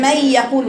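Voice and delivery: "من يقول" with the sound left low in the mouth; ghunna kept low. Shown as a demonstration. Teacher imitating a wrong low-voiced ghunna for students. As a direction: keep "من" in the mouth, not the nose. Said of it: "والصوت ما زال صوتك تحت".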